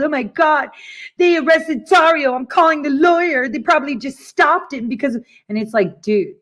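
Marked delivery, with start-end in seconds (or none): 0.0-5.2 higher, rushed mock panic; frazzled panic. Retelling Matt Couch panicking outside the hotel, mock frazzled. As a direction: imitate a flustered man blurting the news. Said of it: "all frazzled".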